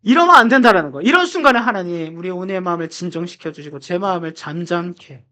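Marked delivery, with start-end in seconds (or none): 1.0-5.2 mock calming prayer. Preacher asking God to calm his rising resentment, a mock calming prayer. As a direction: settle yourself with a half-joking prayer. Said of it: "원망스러워지려고 하는데".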